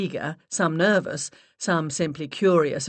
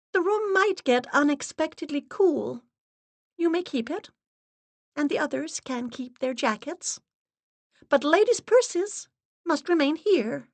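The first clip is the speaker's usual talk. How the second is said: high, stern, unvarying voice; steady monotone; 11 semitones higher than usual. Acted. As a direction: lay down the rules flat and firm. Assistant's held voice.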